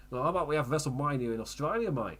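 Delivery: put-on Australian accent. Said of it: "in an Australian accent".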